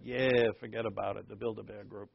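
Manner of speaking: put-on a gentle nod to a thick Italian accent, fading off at the end. Pastor fondly mimicking his Italian friend's accent, kept understated. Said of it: "He was a thick Italian accent".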